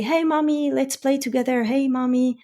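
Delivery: lightly voiced child begging; a hint of an eager little kid; mild childish pleading; kid asking. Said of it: "a kid comes to you and say".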